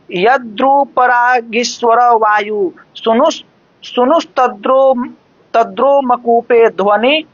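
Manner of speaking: slow, measured shloka recital; Sanskrit verse recitation. Acted. Preacher quoting a shloka to devotees, slow measured recitation. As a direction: recite it slowly, syllable by syllable.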